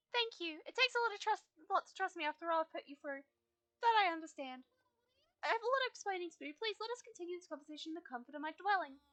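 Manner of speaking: lightly voiced wise guide, comforting; gentle Fripp voice. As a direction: console the grieving rider as Fripp.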